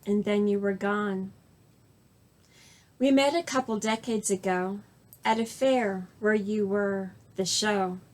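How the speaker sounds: measured, deliberate poem recital with pauses between lines; unhurried personal verse reading; poetry reading. Acted. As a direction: read your own poem aloud, line by line. Reads own poem aloud.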